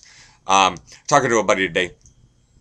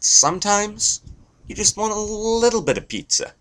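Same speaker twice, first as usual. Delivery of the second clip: very high, small falsetto; tiny squeaky voice. Acted. Comedian contrasting small breasts with big ones, tiny falsetto.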